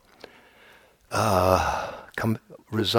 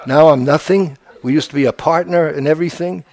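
whining ego; 5 semitones higher, 6 dB louder than usual. Acted. Ego's complaint continues, laughing.

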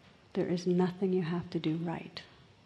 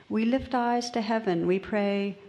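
lightly voiced earnest islanders, a touch higher and louder; simple fishermen; 3 semitones higher, 3 dB louder than usual. Fishermen explaining their prayer to bishop, lightly voiced. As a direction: explain it plainly and eagerly. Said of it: "In pidgin English".

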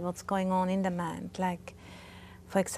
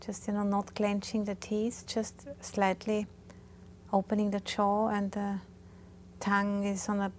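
calm, unhurried guidance with long pauses; guided meditation. Real, not acted. Teacher guiding meditators through posture and body awareness, calm guided meditation. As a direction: gently talk them through settling the body.

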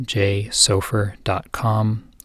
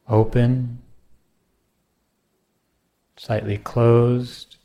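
unhurried meditation guide, long pauses between phrases; guided meditation. Acted. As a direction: gently pose each question, leaving silence after it.

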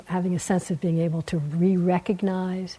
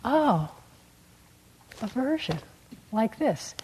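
gentle noting, softer; 3 semitones higher, 4 dB quieter than usual. Shown as a demonstration. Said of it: "All you have to do is notice".

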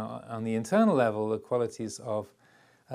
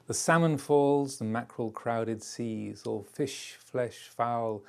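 poetry recitation. Shown as a demonstration. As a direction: recite it like a poem, unhurried. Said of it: "I'll try and recite a few verses".

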